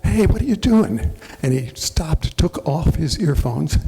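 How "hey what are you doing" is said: much higher, louder shout; retold yell. Homeowner shouting at the roofer over the blower, high and loud. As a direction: call out hard over the leaf blower noise. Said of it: "so I yelled".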